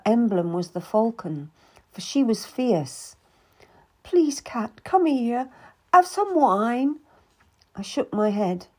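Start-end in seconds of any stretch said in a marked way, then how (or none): 4.0-7.0 higher, louder tearful lady's voice; pleading Anne. Acted. Anne apologizes to Cat, pleading and tearful. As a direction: beg forgiveness, voice rising.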